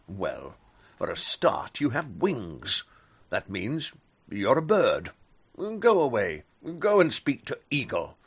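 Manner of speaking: loud, gruff lion telling bat off; commanding lion. Acted. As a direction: boom it out like a king lion. Lion sends bat away.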